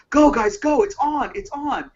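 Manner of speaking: excited high-pitched call, loud at first; retold yell. Fan urging on bullpen guys, retold yell. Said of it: "I just yelled at the top".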